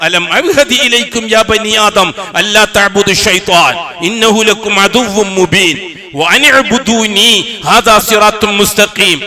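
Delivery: slow, melodic Quran chant; Quranic recitation. Acted. Preacher reciting the verse to the congregation, chanted. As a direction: draw each Arabic word out in tajweed.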